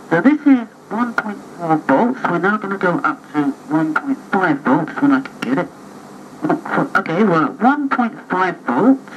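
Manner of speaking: tinny carbon mic recording; gritty early microphone. Real, not acted. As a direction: voice through a crackly carbon microphone. Here's some test recordings.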